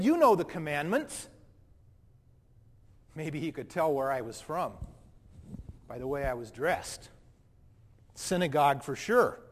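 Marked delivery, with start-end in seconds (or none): 3.1-9.4 put-on indignant, self-righteous young man telling his story; a hurt, defensive rich young man recalls meeting Jesus. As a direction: play the proud rich man, wounded and defensive. First-person monologue as the rich young man.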